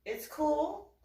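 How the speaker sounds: high, squeaky cover-up; feigned nonchalance. Retold or imitated. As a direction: act badly faked calm. Acts out covering up the injury.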